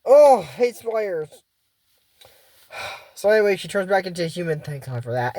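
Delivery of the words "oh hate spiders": disgusted. Real, not acted. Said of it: "in spider form".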